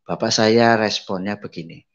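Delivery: ordinary talk, nothing marked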